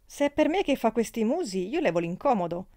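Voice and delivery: a hint of a shrill piqued friend; sour petulant shriek. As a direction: whine that she'll leave. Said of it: "strillava la Malia con la voce agra e petulante".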